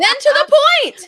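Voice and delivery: loud, high proclamation; hammed-up grand orator; booming declamation. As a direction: thunder it out like a rebel lord. Hotspur's speech resumed with force.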